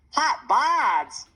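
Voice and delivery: high, loud squeal of disbelief. A narrator's reading. Jackson reacting to Mom's embarrassing phrase, squealing. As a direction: squeal it out like a startled little boy. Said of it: "Jackson squealed".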